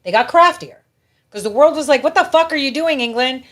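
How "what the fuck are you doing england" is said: loud, high, incredulous outcry; mock outrage. The world confronting England, loud mock outrage. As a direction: demand it loudly, imitating an outraged crowd.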